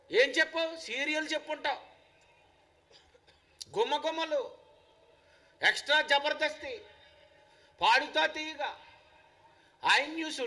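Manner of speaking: insistent sermon delivery; ringing, accusing questions; full-force preaching. Acted. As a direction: challenge the listeners point by point. Preacher challenges congregation.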